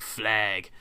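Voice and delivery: FLAG in an attempted London accent; imitated London accent. Friend copying his co-host's word, attempted London accent. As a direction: copy a London pronunciation of "Flag". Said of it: "when you say flag, you say, like".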